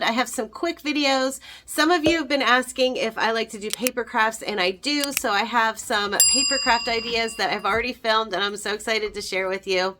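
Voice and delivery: ordinary talk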